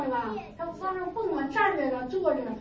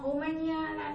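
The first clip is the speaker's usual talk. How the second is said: mock Korean. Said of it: "韩语我知道".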